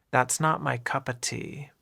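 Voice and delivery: "cup of" run together as "cuppa"; linked words. Shown as a demonstration. Teacher repeats the idiom for learners, "cup of" linked. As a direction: say "cup of" as one word, "cuppa". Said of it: "cup and of sound like one word".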